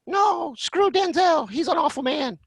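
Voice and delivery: the angel on your shoulder objects; indignant shoulder angel. Pretend. Shoulder angel voicing disgust.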